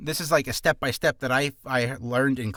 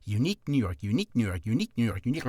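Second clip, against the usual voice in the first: "unique New York" repeated faster and faster; speeding up; 4 semitones lower, much faster than usual. Shown as a demonstration. Tongue twister demo, speeding up. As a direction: rattle "unique New York" quicker each time. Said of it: "then start speeding up".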